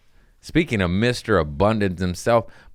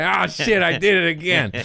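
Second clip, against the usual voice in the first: flustered panic; 10 semitones higher than usual. Retold or imitated. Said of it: "and I'm like".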